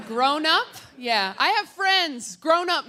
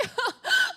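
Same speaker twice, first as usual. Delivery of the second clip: strained crying laugh. Acted. Traumatized kid's laugh.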